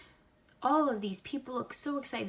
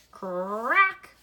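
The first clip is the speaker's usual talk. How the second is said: dramatic crack; 2 semitones higher, 10 dB louder than usual. A narrator's reading. Egg cracks open, read aloud.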